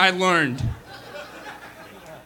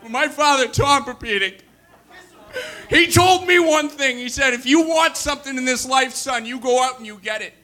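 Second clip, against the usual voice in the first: put-on Boston accent; 6 semitones higher than usual. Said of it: "my fucking Boston accent's gonna come back".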